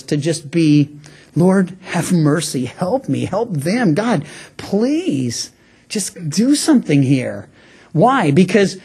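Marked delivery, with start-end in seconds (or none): 1.3-7.5 softer, simple, sincere prayer; heartfelt plea. Shown as a demonstration. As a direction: quietly beg the Lord for help. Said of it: "it's real. It's heartfelt".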